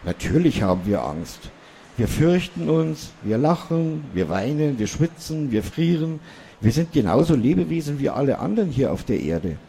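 a small dwarf lecturing the foolish human; lightly voiced dwarf, mildly indignant; Mani the dwarf. A narrator's reading.

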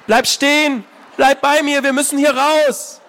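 high, loud urgent pleas; desperate pleading shouts. Acted. Anna begging her brother to stay, frantic shouts. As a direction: beg him to stop, panicked.

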